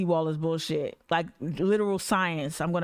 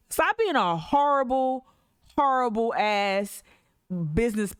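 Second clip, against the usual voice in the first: heated rant; 2 semitones higher than usual. Real, not acted. Slow heated jab at the council. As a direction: lean hard into the insult.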